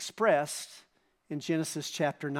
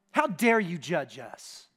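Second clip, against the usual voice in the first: modern echo; slower than usual. Retold or imitated. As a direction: say it back coolly, as today's world does. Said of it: "that sounds so much like what we hear".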